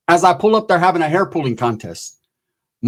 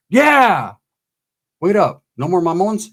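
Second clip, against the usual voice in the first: cheering; 2 semitones higher, slower than usual. Retold or imitated. Cheering the sister's punch.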